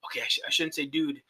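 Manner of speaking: struggling. Retold or imitated. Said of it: "he's struggling, like".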